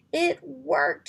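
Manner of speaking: high, loud burst of relief; joyful outburst. Acted. Petra hugs Drake after saving the king, high joyful outburst. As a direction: blurt it out in delight.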